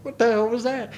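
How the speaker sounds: quick mock American accent. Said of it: "saying it in an American accent".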